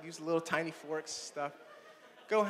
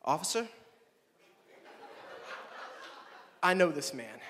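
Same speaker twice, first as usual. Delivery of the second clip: mock white voice; 2 semitones lower than usual. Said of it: "words that only a white person can utter".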